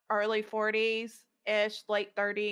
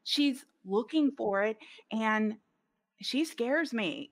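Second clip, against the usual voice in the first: laughing; slower than usual. Retold or imitated. Laughs admitting her fear.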